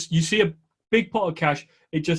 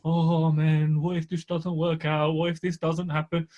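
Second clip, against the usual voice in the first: worried inner voice. Retold or imitated. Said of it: "you can't be sitting there thinking".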